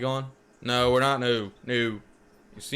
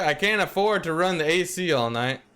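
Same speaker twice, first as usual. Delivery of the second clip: yelling; 5 semitones higher than usual. Acted. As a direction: call it out across the room. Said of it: "yelling towards the exit".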